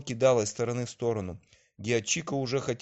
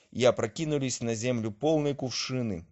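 plain reading voice

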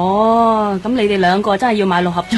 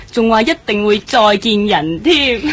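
teasing laugh. Acted. Friend teases about the policeman.

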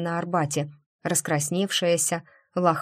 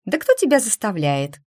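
louder exclaiming question; 4 semitones higher, 5 dB louder than usual. Acted. Nastya pushing back at Eva's fear, exclaiming. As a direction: throw the question out in protest. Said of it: "воскликнула Настя".

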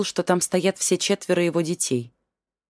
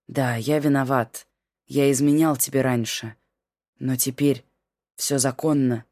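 lower, steady man's voice; calm husband; 3 semitones lower than usual. Acted. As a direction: lower voiced husband calmly excusing himself.

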